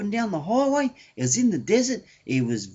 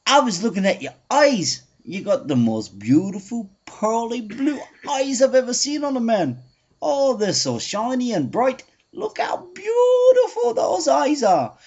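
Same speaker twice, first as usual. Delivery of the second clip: a hint of an Irish lilt, getting louder and higher; Irish bloke; 3 semitones higher, 4 dB louder than usual. Irish bloke building loudly to the insulting punchline, light Irish lilt. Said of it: "the Irish bloke".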